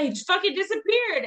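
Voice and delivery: disbelieving high burst on disappeared; exasperated. Real, not acted. Telling listeners her friend vanished, exasperated. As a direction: pitch jumps way up in exasperation.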